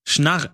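"Schnarr" repeated back, trying the R; repeating Schnarr. Shown as a demonstration. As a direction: copy "Schnarr" slowly after the friend. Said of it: "Sag doch erstmal nur Schnarr".

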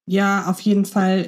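ordinary delivery

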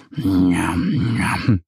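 lip-smacking yum yum, whispered start. A narrator's reading. Little bear dreaming of honey candy, smacking lips. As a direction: smack your lips over imagined sweets. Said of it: "schmatzt der kleine Bär".

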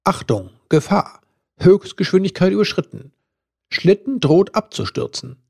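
uncanny warning announcement; eerie voice. A narrator's reading. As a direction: announce the danger like an uncanny machine. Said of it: "die unheimliche Stimme".

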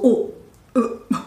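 langsames, gedehntes Okay; zögerlich überrascht. Acted. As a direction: gespielt stutzen, mit Denkpausen zögern. Spielt zögernde Reaktion auf altes Projekt. (zögerlich und verdutzt, gedehnt gesprochen)

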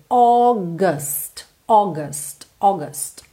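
"August" as AW-guhst; indefinite second vowel. Shown as a demonstration. Teacher models "August" for learners, indefinite uh in second syllable. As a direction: say "August" with a neutral uh in the last syllable. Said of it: "É aquele A, é aquele som indefinido".

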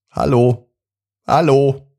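high, friendly little goblin. A narrator's reading. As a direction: call up cheerfully as a goblin. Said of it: "ein leises, aber freundliches".

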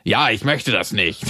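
langsam und gespielt abweisend gesagt; gespielte Abwehr. Pretend. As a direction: ein betont langsames Nein. Spielt abweisende Frau nach. (langsam gespielte Ablehnung)

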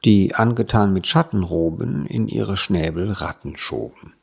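measured, deliberate verse reading; poem recitation. Acted. Host opens the podcast with a nonsense poem, reciting.

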